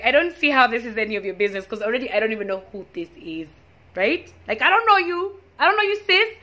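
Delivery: loud, high, indignant telling-off; angry retort. Retold or imitated. To the girl asking about her man, a loud indignant retort.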